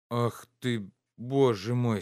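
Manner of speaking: quick exasperated interruption; mild impatient exclamation; impatient cut-in. A narrator's reading. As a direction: cut her off, fed up. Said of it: "с нетерпением перебил он".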